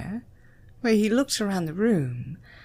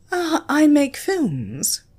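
matter-of-factly; 7 semitones higher, 5 dB louder, slower than usual. A narrator's reading. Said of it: "matter-of-factly".

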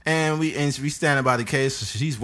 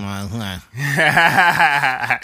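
hesitant nerd humming; nerdy voice; 3 semitones higher, 6 dB louder than usual. Retold or imitated. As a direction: play a timid nerd. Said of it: "a little nerdy voice".

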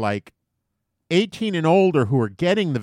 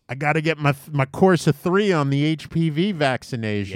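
lightly voiced teenage girl, quick; a hint of a chatty teen girl. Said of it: "That's my girl voice".

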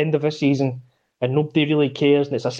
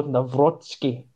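Hungarian pronunciation; 2 semitones lower, 3 dB quieter, much slower than usual. Retold or imitated. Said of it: "sounded like a nineteen eighties villain".

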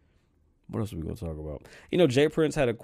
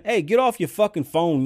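mock angry yell; 8 semitones higher, 7 dB louder than usual. Ranting at rude shoppers.

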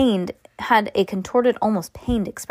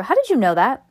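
playful accusation; 5 semitones higher, 5 dB louder than usual. Real, not acted. Accusing child of reading ahead.

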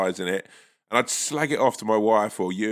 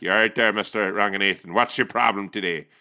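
put-on Northern Irish accent. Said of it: "pass you over to Belfast".

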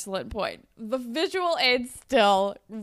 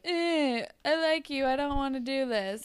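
mock whine, a bit higher; whiny baby; 4 semitones higher than usual. Friend imitating Spinner giving his ultimatum, whiny and put-upon. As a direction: imitate a sulky, whiny complaint. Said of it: "he's being a total whiny baby".

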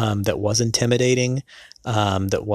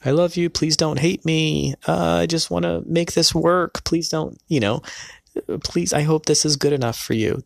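pleading inner fear; 7 semitones higher than usual. Retold or imitated. Groom silently begging his wife while saying vows, high pleading. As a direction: beg her to accept the vows, voice pitched up. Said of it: "That's what I was feeling inside".

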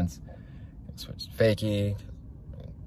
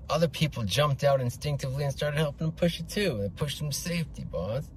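slimy crony voice; 5 semitones higher than usual. Acted. Crony reports to boss.

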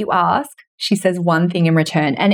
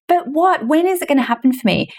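impatient asking; 5 semitones higher than usual. Retold or imitated. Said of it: "walking around going".

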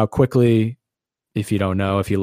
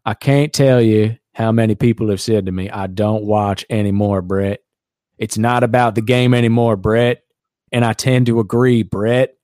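put-on Southern accent; 4 dB louder than usual. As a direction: read Favre's words with a hint of a Mississippi accent. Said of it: "when I read what he said in that accent".

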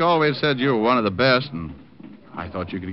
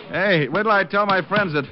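eager, starstruck fan; gushing fan act; 7 semitones higher than usual. Pretend. Diamond plays an eager fan.

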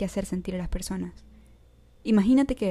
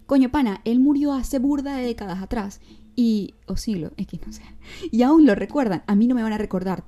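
exasperated mock rant; 3 semitones higher, 5 dB louder than usual. Voicing imagined musician's despair.

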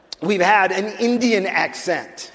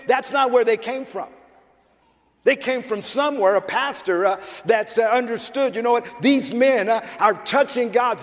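impassioned sermon delivery, pitched up from plain talk; forceful preaching; 6 semitones higher than usual. Real, not acted. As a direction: drive each point home to the congregation. Preaches with force after calmer talk.

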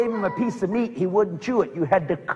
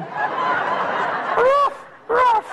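snooty poodle voice. Retold or imitated. Imitating the little poodle.

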